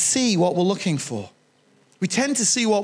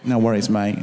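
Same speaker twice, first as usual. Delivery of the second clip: one more mock Australian "No worries, mate"; Australian accent; 9 semitones lower than usual. Shown as a demonstration. Preacher asks if his Australian accent was better. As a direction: try to match the Aussie version. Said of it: "Was that better?".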